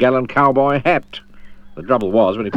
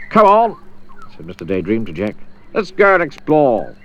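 lightly raised, cheery adventurer; Mister Daydream voice. Acted. Mister Daydream inviting Jack along, cheery and raised.

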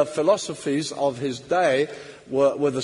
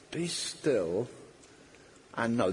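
soft hush; 7 semitones lower, 8 dB quieter, slower than usual. Acted. Quiet devotional echo.

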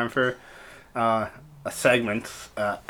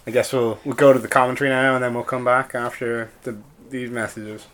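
hyped sportscaster voice; sports announcer; 3 semitones higher, 4 dB louder than usual. Pretend. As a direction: call it like halftime on TV. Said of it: "it's a tight game coming into halftime".

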